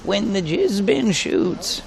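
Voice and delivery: slow, drawn-out goofy voice; random voice. Pretend. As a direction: stretch it out in a silly voice. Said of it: "Random voice".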